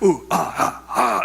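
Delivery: mock hyped-up athlete grunts; imitation of psyched-up CrossFit grunting; pumped-up crowd. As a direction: puff out exaggerated workout hoots.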